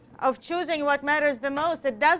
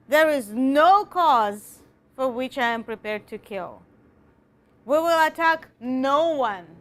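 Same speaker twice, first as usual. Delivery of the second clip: reading the speech. Shown as a demonstration. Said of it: "Look here".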